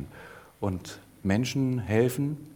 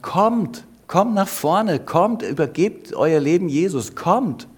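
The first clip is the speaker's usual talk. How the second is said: raised, higher voice calling the women forward; 7 semitones higher, 4 dB louder, slower than usual. A narrator's reading. Missionary calling the silent women forward, raised call. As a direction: call them to the front, pleading. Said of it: "hat sie aufgerufen und gesagt".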